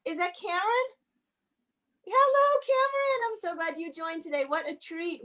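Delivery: high, sing-song hello to a little one. Real, not acted. Greeting a small child on screen.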